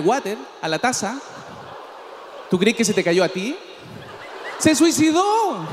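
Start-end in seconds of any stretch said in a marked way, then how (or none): 4.6-5.7 shouted punchline. Real, not acted.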